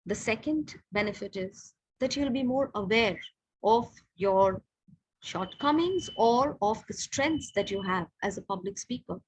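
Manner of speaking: quiet, measured delivery with short pauses between phrases; pause, then stress the benefit; pauses for emphasis. Shown as a demonstration. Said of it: "बीच बीच में थोड़ा pause लिया".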